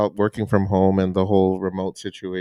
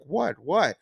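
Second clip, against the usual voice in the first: confused husband; 5 semitones higher, 4 dB quieter than usual. Retold or imitated. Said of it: "he's so confused".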